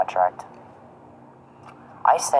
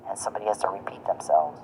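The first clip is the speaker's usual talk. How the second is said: whisper; 2 semitones lower, 6 dB quieter than usual. Real, not acted. Mocking aside.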